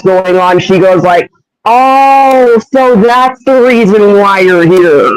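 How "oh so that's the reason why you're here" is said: drawn-out, higher-pitched oh of understanding; dawning realization. Acted. Human persona after hours of explaining, acted realization. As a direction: let the penny drop, stretching it out.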